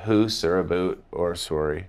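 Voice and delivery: Canadian "boot" for about; Canadian accent. Retold or imitated. Actor caught out on set, in a Canadian accent. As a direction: say it with Canadian vowels, understated. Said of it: "Implying I've just said".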